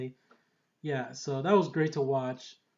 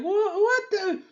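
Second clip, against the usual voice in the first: high startled cry, then a mock call to Frank; retelling his own stunned reaction; shocked outburst; 7 semitones higher than usual. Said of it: "I was like".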